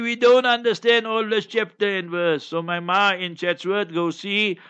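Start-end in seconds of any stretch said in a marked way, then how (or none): 0.0-2.4 higher voice, imitating his aunt's complaint. Aunt in Chatsworth scolding him about chapter and verse, higher voice. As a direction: pitch it up like a fussing aunt. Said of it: "she tell me".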